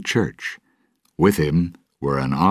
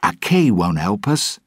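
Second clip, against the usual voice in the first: a touch raised, mildly impatient; 5 semitones higher, 4 dB louder than usual. Acted. Jack to Gibbs, a little impatient. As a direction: brush the question off lightly. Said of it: "Jack said impatiently".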